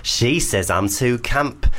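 lightly camp, put-on northern voice; camp Leeds caller. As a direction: read it out in a mildly camp Leeds accent. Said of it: "make it more camp".

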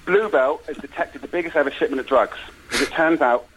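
measured trailer-style storytelling; film pitch narration. Acted. Pitching a cop film to the hosts, dramatic narration. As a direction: set the scene in dramatic phrases.

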